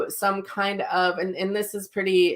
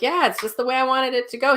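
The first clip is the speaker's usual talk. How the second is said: cheerful spirit voice; 7 semitones higher, faster than usual. Retold or imitated. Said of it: "And he's like".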